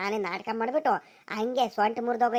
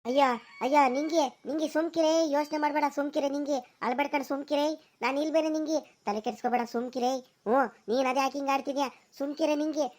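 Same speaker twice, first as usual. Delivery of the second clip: higher, gentle hushing of a crying wife; soothing; 3 semitones higher than usual. Acted. Husband hushing his crying wife, gentle soothing.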